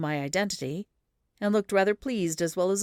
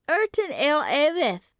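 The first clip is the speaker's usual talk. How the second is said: put-on "Erton Ale Avith" lifted into a higher child key; in a different key; 10 semitones higher, 6 dB louder than usual. A narrator's reading. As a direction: repeat "Erton" on a new higher note. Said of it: "in a different key".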